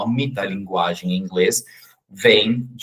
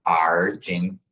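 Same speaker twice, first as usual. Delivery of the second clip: whispered demo; 3 semitones lower, 4 dB quieter than usual. Shown as a demonstration. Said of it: "termina com esse an".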